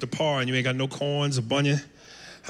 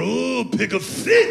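mock Asian accent; 5 semitones higher, much slower than usual. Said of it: "Asian girl looking at me going".

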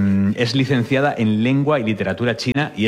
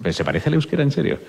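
higher-pitched, disbelieving question; incredulous; 7 semitones higher, faster than usual. Real, not acted. Host double-checks the Basque likeness with the teacher, incredulous. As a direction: ask it in real surprise.

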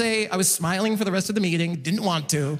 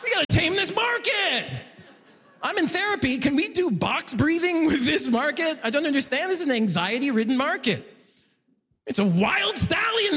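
comic rant; 5 semitones higher than usual. Acted. Ranting about the market.

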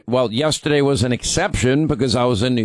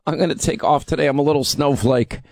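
higher, halting mock-feeble whine; mock whining; 3 semitones higher than usual. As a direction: whimper like a fragile snowflake, hammed-up. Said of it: "I can take the easy option".

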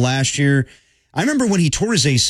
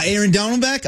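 higher, badly faked Australian voice; mock Australian accent; 6 semitones higher than usual. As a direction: attempt at an Australian fan. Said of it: "I can't do a good Australian accent".

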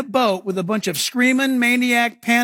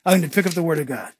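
brisk; 5 semitones lower, faster than usual. Shown as a demonstration. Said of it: "Now watch, watch".

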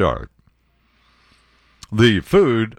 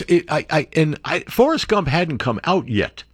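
ordinary talk

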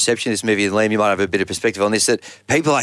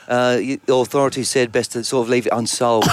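put-on mild British accent. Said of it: "That's a very good accent".

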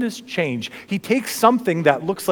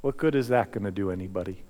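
much softer, lower, quicker; hushed question; 9 semitones lower, 8 dB quieter, faster than usual. Acted. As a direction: ask it quietly at the cross. Same question, now hushed reflection.

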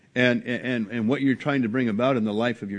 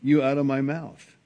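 Jesus rebuking; 2 semitones higher, 3 dB louder than usual. Acted. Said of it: "How could Jesus talk like that?".

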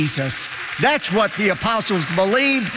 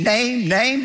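each "name" leaned on and set apart; stress on name; 3 semitones higher than usual. Shown as a demonstration. Preacher pointing the flock to the word "name", stressed. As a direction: hammer the word "name" twice. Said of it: "Notice the emphasis on the word name".

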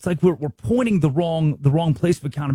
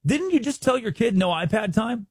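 calling out a parent; 3 semitones higher than usual. Retold or imitated. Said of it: "you're like".

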